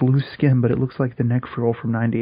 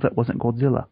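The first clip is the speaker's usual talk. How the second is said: British accent. Shown as a demonstration. Podcaster reading a designer's statement to co-host, British accent. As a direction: read it in a light British accent. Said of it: "I was just doing a British accent".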